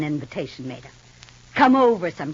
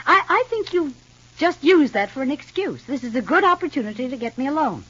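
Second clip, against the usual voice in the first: bitter accusation; 6 semitones higher than usual. Acted. Sister accuses sister of pretext.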